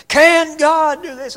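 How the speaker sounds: slow, screaming, gravelly preacher impression; Harold Sightler. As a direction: bellow it high and hard, drawn out. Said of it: "He's got this real hard voice".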